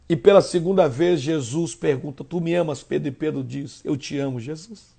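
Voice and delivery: soft, low storytelling; hushed retelling. Acted. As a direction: drop to a hush for the tender moment. Quiet retelling of second question.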